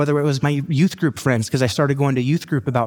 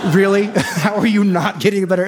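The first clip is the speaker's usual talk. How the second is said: laughing disbelief; 6 semitones higher than usual. Real, not acted. Mock disbelief at his own grades.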